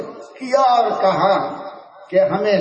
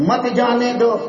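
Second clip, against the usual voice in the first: "مت جانے دو" as one unit; grouped phrase; 3 semitones higher than usual. Shown as a demonstration. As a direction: join "مت" onto "جانے دو". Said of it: "الگ کر دو".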